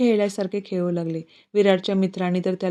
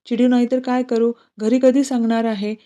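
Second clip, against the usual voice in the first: raised, sulky angry question; angry demand; 3 semitones higher, 4 dB louder than usual. Acted. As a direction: confront the boyfriend. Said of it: "ती रागेनेच त्याचा हात झटकत बोलते". (रागाने जाब विचारणे)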